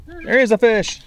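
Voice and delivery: high and loud; excited shout. Real, not acted. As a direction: call it out thrilled. Landing the fish.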